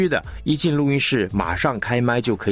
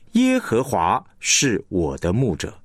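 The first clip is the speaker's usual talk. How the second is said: 耶和华 read heavier and stretched, the rest lighter; stress on 耶和华. Shown as a demonstration. Teacher demonstrating stress on the name 耶和华, emphatic. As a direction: lean on 耶和华 at the start, slow. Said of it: "你会强调耶和华".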